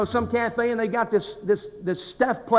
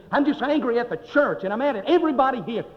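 higher, mildly heated complaint; retold angry outburst; 5 semitones higher than usual. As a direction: imitate an angry church member venting. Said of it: "he just blew up".

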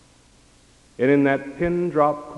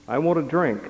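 lightly voiced child; 4 semitones higher than usual. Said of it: "The lonely child cried out at night".

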